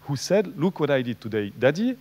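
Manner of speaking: English quote with a French accent. Real, not acted. Lecturer quoting English study sentence, French-accented English. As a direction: read the English quote as a French speaker would. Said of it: "vous allez remarquer mon accent anglais".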